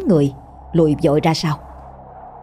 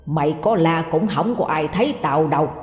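a hint of a growl; 4 dB quieter than usual. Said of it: "rồi gằn giọng".

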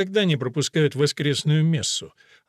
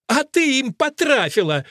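put-on high, loud furious outburst at the girl; nun shouting in rage; angry shout; 11 semitones higher, 5 dB louder than usual. A narrator's reading. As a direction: yell the accusation. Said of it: "закричала мать Анхелика".

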